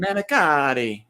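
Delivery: manicotti in a hammed-up Italian accent, slow; mock Italian accent on manicotti. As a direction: say manicotti like a fake Italian, drawn out. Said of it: "pretend like they're Italian".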